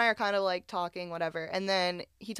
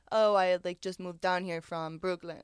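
lightly put-on Russian accent; amateur mock Russian accent. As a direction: imitate a Russian man's accent. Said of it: "That's that's my Russian".

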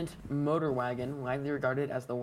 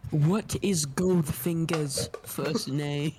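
slow, lightly put-on British accent; a hint of a British accent; 4 dB louder, slower than usual. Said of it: "I really wanna say it in a British accent".

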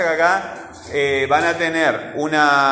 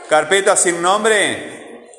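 slow dictation; 4 semitones higher, 4 dB louder, much slower than usual. Shown as a demonstration. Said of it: "teacher reading screen slowly".

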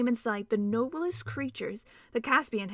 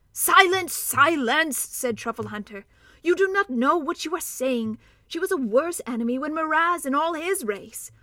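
a hint of a stern, higher badger; 5 semitones higher, 4 dB louder than usual. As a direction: rebuke him like a stern old badger. Truffle Hunter rebukes dwarf.

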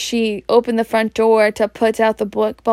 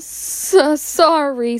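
sobbing; 5 semitones higher, much slower than usual. Acted. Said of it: "sobbed Hagrid".

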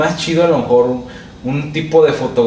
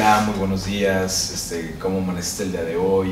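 much lower, much softer husky greeting; a deep just-woke-up good morning; 6 semitones lower, 8 dB quieter than usual. Shown as a demonstration. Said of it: "amaneces con un poco más ronca tu voz". (voz grave y muy suave de recién levantado)

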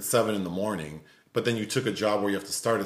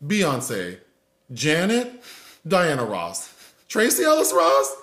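higher, louder list of names, mock sobbing; tearful diva roll call; 6 semitones higher, 4 dB louder than usual. Retelling the crying woman in the video, mock wailing list. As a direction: wail out each diva's name in hammed-up grief. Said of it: "She's naming all the black divas".

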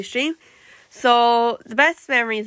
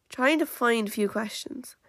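hiccuping; 7 dB quieter than usual. Real, not acted. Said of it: "I keep hiccuping".

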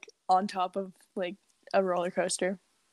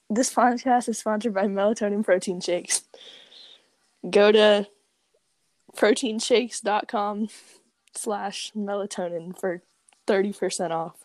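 mock ad read.

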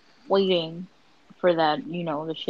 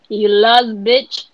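mock shout; 6 dB louder, slower than usual. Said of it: "I would've been like".

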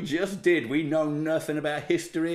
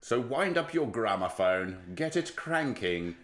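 slow, measured gramophone-era address; drawn-out old-world invitation; mock old-time announcer; 4 semitones lower, 5 dB quieter, much slower than usual. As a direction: announce it with lightly played antique pomp. Mock-archaic podcast opening.

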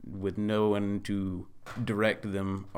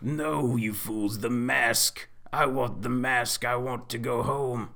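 booming villain demand; 4 semitones higher, 4 dB louder than usual. Acted.

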